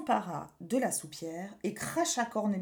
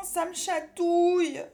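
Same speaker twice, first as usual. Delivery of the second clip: higher, slow whiny complaint; whimpering; 7 semitones higher, 4 dB louder than usual. A narrator's reading. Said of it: "en gémissant".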